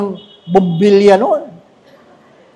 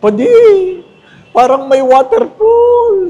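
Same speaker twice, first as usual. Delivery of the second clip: quoted parishioner; 10 semitones higher, 4 dB louder than usual. Retold or imitated. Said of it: "Sabi niya".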